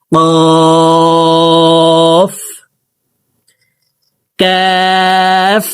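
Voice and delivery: কফ from the back of the tongue, কাফ slow and held; recited letters. Shown as a demonstration. Teacher contrasts two letters for viewers, slow recitation. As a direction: chant কফ then কাফ, slow. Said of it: "উচ্চারণ করে পড়ব".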